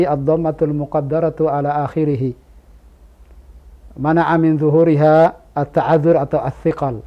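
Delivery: bury the beginner in grammar jargon; a teacher parodying a needlessly hard lesson; overcomplicated explanation. Shown as a demonstration. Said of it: "Ada orang mempersulit".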